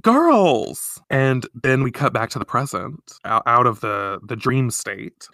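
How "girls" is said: calling out. Retold or imitated. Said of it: "Minako being like".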